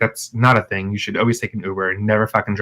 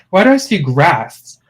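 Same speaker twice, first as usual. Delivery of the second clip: laughing confusion; 5 semitones higher, 3 dB louder than usual. Retold or imitated.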